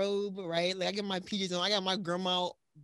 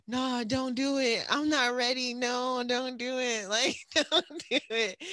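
slow, drawn-out begging, a little higher; slow nervous pleading; 4 semitones higher, slower than usual. Retold or imitated. Refusing to meet her idol, slow anxious pleading. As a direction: beg him not to put her on, slowly. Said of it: "the more I'm like".

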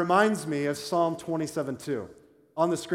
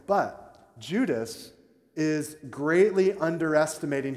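slow emphasis; slower than usual. Shown as a demonstration. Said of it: "slowed emphasis".

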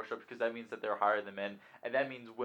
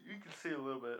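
talking through a yawn; words stretched by a yawn; 7 dB quieter, faster than usual. Real, not acted. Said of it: "I'm yawning".

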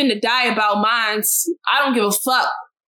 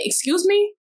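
sharp rising indignant challenge; indignant excuse me; 7 semitones higher than usual. Retold or imitated. Calling out the supervisor, indignant rising challenge. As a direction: call her out with a rising excuse me. Confronting racist supervisor, retold.

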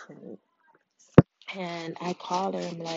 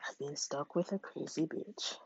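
whispered aside to herself; 2 semitones lower, 5 dB quieter than usual. Retold or imitated. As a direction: breathe it out in dismay.

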